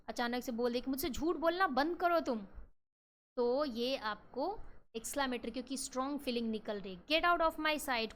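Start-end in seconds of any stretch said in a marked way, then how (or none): 0.9-2.4 acted anger in a classroom example; sudden angry outburst. Shown as a demonstration. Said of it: "जैसे गुस्से में बात चल रही है". 7.1-8.1 slow and loud, stretched out; acted anger; angry command. Shown as a demonstration. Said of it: "कोई आराम से नहीं बोलेगा".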